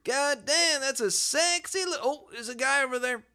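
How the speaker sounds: high frog voice. Pretend. Voicing frogs spotting a guy.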